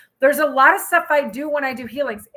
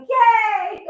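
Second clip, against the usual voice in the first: high, loud "yay" of glee; excited cheer; 8 semitones higher, 6 dB louder than usual. Retold or imitated. Streamer celebrating finally getting shorts, excited cheer. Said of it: "I'm so excited".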